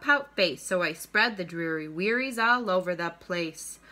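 bouncy picture-book rhyme, punching each pout; reading to children. A narrator's reading. Teacher reads a rhyming fish book to students, read-aloud lilt. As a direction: read it aloud with a lilting beat.

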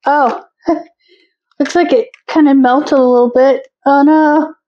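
laughing surprise at the melted candy; amused laugh through the words. Real, not acted.

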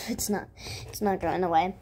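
hiccuping while whispering; with hiccups. Real, not acted. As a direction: talk through hiccups. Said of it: "I have the hiccups".

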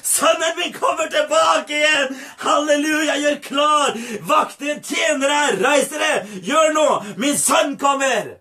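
jubilant father calling through the house; rally everyone with urgent joy; excited crying out. Acted. Father calling guards and servants, excited cries. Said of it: "og skrek".

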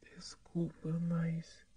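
hushed whispering. Acted. Hospital scene, whispering. (sussurro baixinho)

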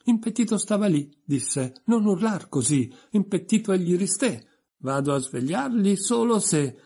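high, loud declaiming shout; loud, high, almost-shouted recital; near shout. Acted. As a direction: bellow the verse to its peak. Poem's climax, near shouting.

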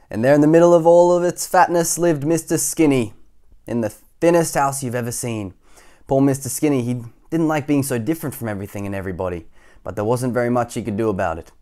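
animated storybook reading; lively, measured telling of the tale; story narration. A narrator's reading. Reader telling children about Mister Skinny, storybook narration.

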